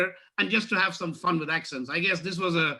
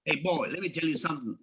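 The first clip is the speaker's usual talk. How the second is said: a hint of a Louisiana good old boy; mild Southern bubba voice; Louisiana bubba accent. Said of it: "here's your Louisiana bubba for you".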